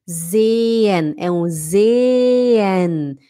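"sehen" very stretched, zeee-en; exaggerated slow "sehen" with a silent h; long e. Shown as a demonstration. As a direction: hold the e of "sehen" extra long, no h. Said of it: "é um E longo".

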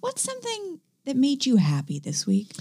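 breathy hushed whisper. Acted. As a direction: whisper the question close to the mic. Host asks co-host the question.

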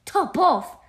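loud, high incredulous echo; astonished cry. A narrator's reading. Mouse hears the child's odd name, astonished. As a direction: cry the name back in disbelief. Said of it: "cried the mouse".

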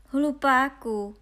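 loud, high, drawn-out insult; stretched storybook jeer; exasperated name-calling. A narrator's reading. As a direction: yell it at the fool. Brothers shout insult at Honza.

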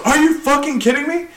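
high-pitched mock indignation; retold outrage. Site boss catching a worker on his phone, retold outrage. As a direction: imitate an outraged man, pitch jumped up.

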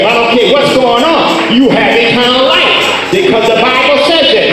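ringing, rhythmic revival preaching; full-force preaching. Real, not acted. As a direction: preach it out with conviction.

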